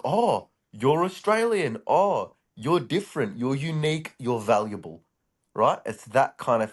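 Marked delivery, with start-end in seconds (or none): 0.0-5.0 high, slow fawning gush; mock gushing admirer. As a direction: gush over the Aussie like a starstruck fan. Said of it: "So people are like".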